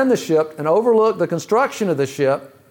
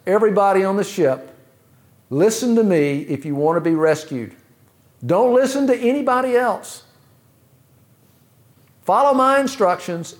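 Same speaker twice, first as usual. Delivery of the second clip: higher-pitched, lightly acted call to a crowd; urgent rescue instructions; 3 semitones higher than usual. Ship's designer instructs stranded passengers over the intercom, urgent and higher. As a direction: lightly play a rescuer directing survivors.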